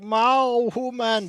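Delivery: high, loud meowing cat; a loud, high cat yowl; mock cat meow. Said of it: "It's like".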